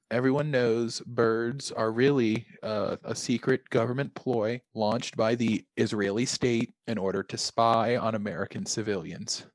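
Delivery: deadpan, quiet, matter-of-fact conspiracy claim; conspiracy theorist. Pretend. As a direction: state the theory flatly as plain fact. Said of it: "when you say it like that".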